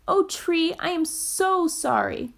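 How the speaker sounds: gulped. Acted. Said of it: "gulped Fletcher".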